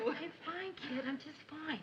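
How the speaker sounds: soft, hushed reassurance; still whispering. Acted. Answering a friend while boyfriend sleeps, whispering. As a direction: keep it well under the breath. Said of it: "I'm whispering because I don't".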